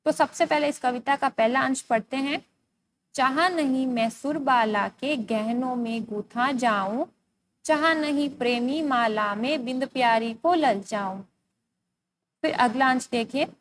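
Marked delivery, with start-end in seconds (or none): 3.1-11.2 slow, measured verse reading; poem recitation. Acted. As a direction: recite the poem slowly, drawing out the line endings. Reads the poem aloud.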